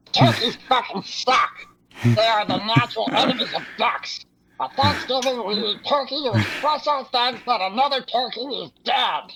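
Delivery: lightly quacky duck voice. Acted. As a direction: explain it as a cartoon duck. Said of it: "but then Mallory explained".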